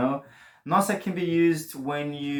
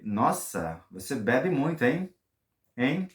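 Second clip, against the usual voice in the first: teasing hein; 2 semitones higher than usual. Shown as a demonstration. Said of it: "You can say".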